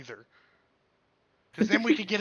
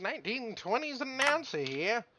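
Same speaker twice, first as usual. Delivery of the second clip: 1920s announcer; 5 semitones higher, 4 dB quieter than usual. Shown as a demonstration. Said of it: "you do the nineteen twenty announcer".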